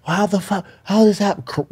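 half-acted frantic crying voice; mock bawling wife.

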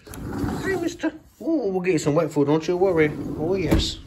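very high cooing pet voice. Real, not acted. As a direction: squeal hello to the cat. Greeting cat at door.

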